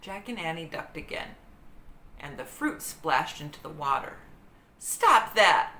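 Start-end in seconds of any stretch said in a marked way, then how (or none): 4.8-5.7 loud scolding shout. A narrator's reading. Annie shouts at the monkey. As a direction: order the monkey to stop. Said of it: "Annie shouted".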